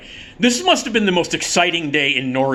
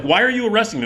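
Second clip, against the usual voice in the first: higher-pitched retold protest; baffled protest; 7 semitones higher, faster than usual. Cuffed man asks cop about arrest, baffled protest. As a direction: question the cop in mild disbelief, pitched up.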